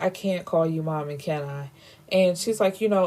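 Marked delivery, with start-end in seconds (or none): 0.0-1.7 put-on soft, subdued child's plea, no sobbing; understated hurt, dropping low at the end; retold tearful plea. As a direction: imitate a crestfallen child asking quietly. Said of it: "is crying. She's like".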